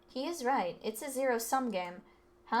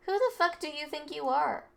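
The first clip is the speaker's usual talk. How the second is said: higher, louder angry demand; 5 semitones higher, 4 dB louder than usual. Acted. Delinquent snapping at the rich kid, angry demand. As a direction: get in his face.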